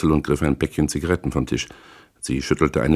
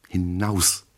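spat out; 5 dB quieter than usual. A narrator's reading. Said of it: "spuckte sie".

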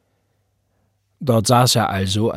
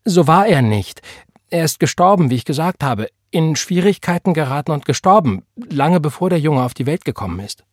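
higher, louder upset defence; distressed, insistent explanation; tearful protest; 6 semitones higher, 5 dB louder than usual. A narrator's reading. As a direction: protest urgently, close to tears. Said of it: "mit Tränen in den Augen".

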